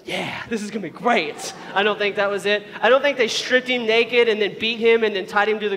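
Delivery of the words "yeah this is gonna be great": hammed-up eager cheer; mock enthusiasm. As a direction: imitate someone absurdly thrilled by it. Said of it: "he's like".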